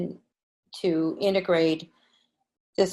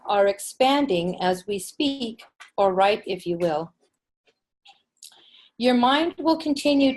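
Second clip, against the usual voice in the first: channeled message; 3 semitones higher than usual. Acted. Channeling written angel message.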